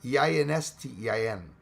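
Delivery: "E I N S T E I N" as run-together English letter names; sounded-out letters. Shown as a demonstration. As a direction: spell "E I N S T E I N" so it flows like a German-sounding sentence. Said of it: "I'm going to sound out each letter".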